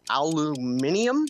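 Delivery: drawn-out al-you-MIN-ee-um; "aluminium" said slowly with its -ium ending; British-style aluminium. Retold or imitated. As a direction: stretch out "aluminium" the British way, with the extra syllable. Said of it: "that would drive me bonkers".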